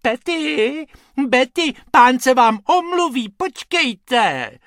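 high, sugary little voice; sweet cooing call. Acted. Lady calling her little dogs to wait, sweet-voiced. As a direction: call out sweetly to pampered pets. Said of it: "sladkým hláskem volá".

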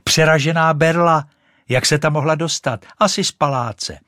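thrilled at the find; boy shows the stick to his friend; excited boy. Acted. Boy finds stick, calls out.

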